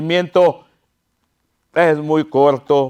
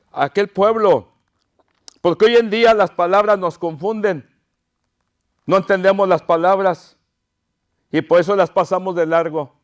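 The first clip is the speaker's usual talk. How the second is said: usual speaking voice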